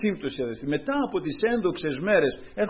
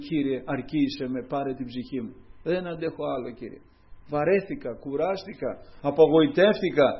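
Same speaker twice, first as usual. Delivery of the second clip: weary lament. Retold or imitated. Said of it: "να φωνάζει και να λέει".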